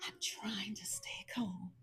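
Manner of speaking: hushed, near-whispered self-restraint; strained calm. Retold or imitated. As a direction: keep it very soft, holding frustration in. Telling how she held back frustration.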